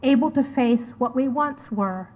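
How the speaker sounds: measured poetry reading, pausing after each phrase; poem recitation. Acted. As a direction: read it line by line, letting each image stand. Reads her poem aloud.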